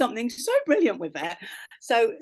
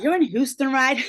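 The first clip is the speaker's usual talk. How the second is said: American accent, pitched up and louder; 3 semitones higher, 5 dB louder than usual. Shown as a demonstration. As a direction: play up a Southern American twang. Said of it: "your best American accent".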